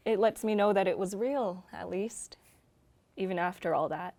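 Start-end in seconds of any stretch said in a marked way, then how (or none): 1.7-2.4 whispered. Acted. Whispered afterthought.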